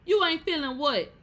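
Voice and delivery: high, loud indignant question; indignant demand. Acted. Host challenging the parent who leaves, loud and incredulous.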